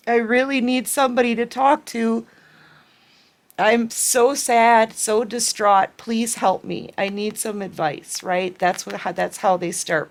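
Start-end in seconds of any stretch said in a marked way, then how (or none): 0.1-2.2 higher, tearful plea as her own tears rise; crying. Real, not acted. Reader near tears voicing the ex's plea to a friend, crying. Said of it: "See, they're making me cry again". 3.6-8.2 crying. Real, not acted. Reader tearing up while voicing the ex begging a friend, crying. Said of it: "See, they're making me cry again".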